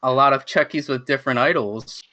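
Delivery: mildly imitated idol telling off a fan; retold scolding. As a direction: retell her scolding, confronting the fan. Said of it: "scolding me for the whole entire time".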